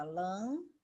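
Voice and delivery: "Lâmpada" broken into lâm... pa... da; syllable by syllable. Shown as a demonstration. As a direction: say "Lâmpada" with a gap after each syllable. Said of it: "três sílabas".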